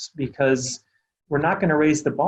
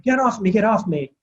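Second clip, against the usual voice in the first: higher-pitched mock yell of a struggling child; retold child's yell; 7 semitones higher than usual. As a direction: imitate a little girl yelling, pitched up but not full volume. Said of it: "she's yelling".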